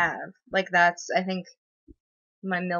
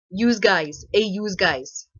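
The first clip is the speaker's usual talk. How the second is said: louder mock of "Use guys" with a put-on accent; mocking "yous guys"; 5 dB louder, slower than usual. Streamer parodies a troll's "yous guys" in a louder mock accent. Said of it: "Use guys. Hey, use guys".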